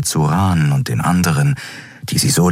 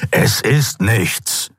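very slow hissing dismissal, stress on ist; hissed; 5 semitones higher, much slower than usual. A narrator's reading. Kero hisses at Xea to drop it, slow. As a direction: spit it out slowly, stress on ist. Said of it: "fauchte der Skria".

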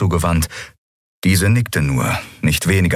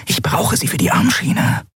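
raised character voice; 11 semitones higher than usual. Acted. Narrator voicing a character, higher. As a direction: voice her line above the narration.

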